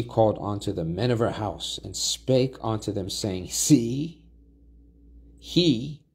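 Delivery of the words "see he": accusing wife. Acted. Wife accuses Joseph, read dramatically.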